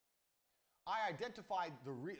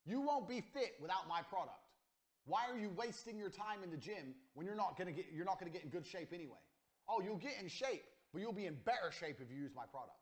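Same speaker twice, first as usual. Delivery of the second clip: pushy sales pitch; 4 semitones higher, 5 dB louder than usual. Acted. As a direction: hammer the buyer into feeling he needs it. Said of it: "you need to say to people".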